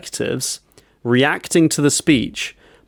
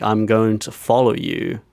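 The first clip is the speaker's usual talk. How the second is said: slow, lower-pitched narration; imitated film voiceover; 3 semitones lower than usual. Man about to follow her home, slow mock voiceover. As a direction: say it slowly, like a thought in voiceover. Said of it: "this is like a voiceover".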